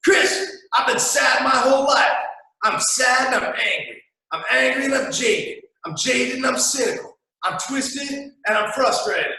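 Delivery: high whiny mock lament; whiny cynic. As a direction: lampoon a jaded listener. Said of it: "people out here like".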